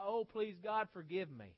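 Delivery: imitated plea, high and loud; crying out. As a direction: cry it out like a pleading woman, easing off at the end. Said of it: "just cry and weep and just cry out".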